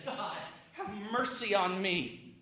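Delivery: very soft penitent prayer; humble plea. Acted. Tax collector prays to God, humbly and softly. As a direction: beg mercy under your breath. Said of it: "he beat his breast and said".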